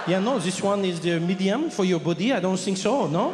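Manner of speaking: put-on light French accent, condescending; French shop assistant. French clerk correcting the customer's size, in a French accent.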